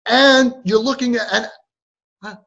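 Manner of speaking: exasperated mock parental rant; hammed-up parent losing it; crazed parent. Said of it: "And we become, like, crazy".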